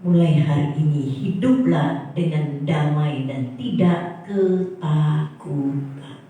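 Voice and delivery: slow, gentle pronouncement; slow blessing. Retold or imitated. Pastor blesses the mother, slow and gentle.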